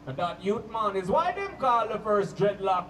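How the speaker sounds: low, slow Jamaican roots man preaching. Retold or imitated. Roots man preaches to party guests, slow low Jamaican accent. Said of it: "he'll be like".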